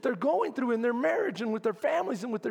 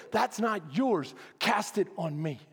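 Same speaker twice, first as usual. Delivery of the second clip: God's voice; 4 semitones lower, 3 dB quieter than usual. Retold or imitated. God answers the anxious preacher.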